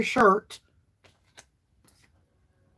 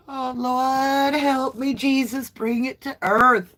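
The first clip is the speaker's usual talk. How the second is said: laughing plea; 5 semitones higher, slower than usual. Real, not acted. Still laughing, pleading heavenward.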